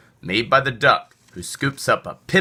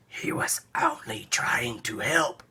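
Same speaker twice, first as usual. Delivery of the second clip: weeping; 8 dB quieter than usual. Acted. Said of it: "wept the cat".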